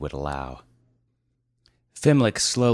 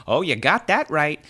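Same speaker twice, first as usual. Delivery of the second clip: scream; 10 semitones higher, 4 dB louder than usual. Acted. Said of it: "screamed the".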